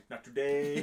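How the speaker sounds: loud comic imitation of a killer's retort; mock defiant refusal. Co-host voices Jason grabbing Stubbs, mock defiance. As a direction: throw it out loud, as a joke.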